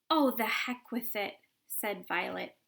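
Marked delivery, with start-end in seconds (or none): 0.1-1.4 loud dismissive. Acted. Violet dismissive.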